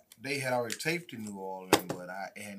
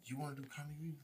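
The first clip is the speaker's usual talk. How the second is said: imitated host; 5 semitones higher, 9 dB quieter, much faster than usual. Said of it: "She like".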